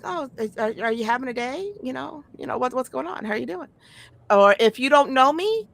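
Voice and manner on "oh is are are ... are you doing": lighter, higher, softer polite voice; mock gentle concern, lightly voiced; sweetly polite asker. Suggesting how strangers should ask, softly polite. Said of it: "maybe be like".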